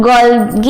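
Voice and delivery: Golgi said "GOL-ghee"; hard g. Shown as a demonstration. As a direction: say Golgi with a hard g in the second syllable. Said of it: "कई लोग Golgi भी बोलते हैं".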